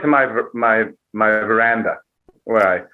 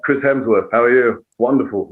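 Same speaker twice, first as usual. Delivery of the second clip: put-on light suave Australian accent; a hint of smooth Australian; understated Australian leading-man accent; Chris Hemsworth. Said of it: "that new Cary Grant where it's not too Australian".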